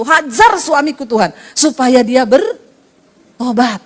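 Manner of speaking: slow, deliberate prayer, hajar stressed; slow prayer demo. Shown as a demonstration. Preacher slowly demonstrates the prayer to the congregation, drawn out. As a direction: pray it out slowly, leaning on hajar. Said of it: "Nggak apa-apa, saudara, doa begitu".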